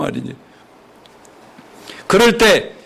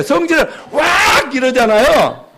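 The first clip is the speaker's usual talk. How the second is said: mock temper burst; 4 semitones higher than usual. Shown as a demonstration. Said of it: "성질 부리를 어떻게 해?".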